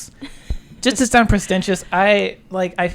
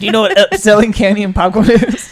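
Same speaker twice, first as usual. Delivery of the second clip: put-on loud old storyteller quizzing kids; hushed creepy legend telling; 9 dB louder than usual. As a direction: ask it like a campfire tale.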